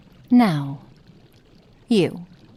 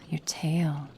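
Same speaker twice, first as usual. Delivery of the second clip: awed whisper; 2 semitones lower, 6 dB quieter than usual. Acted. Awed at the tail.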